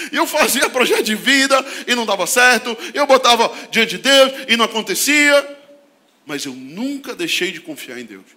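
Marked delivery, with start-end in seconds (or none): 0.0-5.6 laughing. Real, not acted. Laughing retelling failures.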